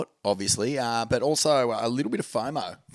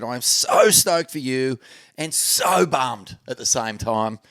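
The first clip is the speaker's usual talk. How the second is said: both instances of "so" drawn out; slow read, leaning hard on "so"; emphatic quote; slower than usual. Retold or imitated.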